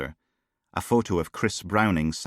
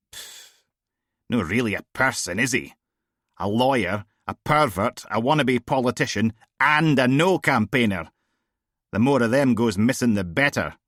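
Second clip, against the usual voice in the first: a hint of a blunt, raised-voice female DI; tossing off casual jibes, a little louder; lightly voiced brash boss; 4 semitones higher, 4 dB louder than usual. Bored boss grumbling to her officer, lightly voiced. Steele dismissing the missing man.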